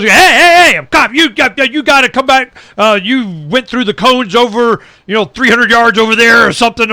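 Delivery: high, loud, insistent hail; cop calling out. Retold or imitated. Cop chasing him down to the parking lot, loud call. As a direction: call him back hard. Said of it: "And the guy goes".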